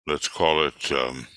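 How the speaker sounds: wheezy, short of breath; wheezing through the words. Real, not acted. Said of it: "been doing a bit of wheezing".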